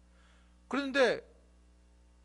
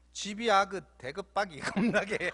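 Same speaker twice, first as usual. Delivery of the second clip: 웃음 터져 말이 끊기는 전라도 말투; 읽다가 웃음이 새는 사투리; 웃다가 끊긴 전라도 사투리. Shown as a demonstration. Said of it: "아이들 머리가 참 똑똑합니다". (웃음 섞인 전라도 사투리)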